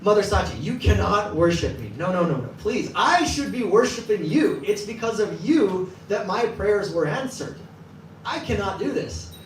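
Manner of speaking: high, pleading protest; flustered refusal. Retold or imitated. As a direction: wave off the honour, embarrassed and insistent. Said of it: "So he's like".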